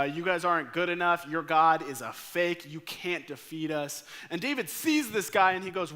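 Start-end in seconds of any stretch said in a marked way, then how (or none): 0.0-4.0 mock giant's taunt. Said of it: "he begins to taunt the Israelites".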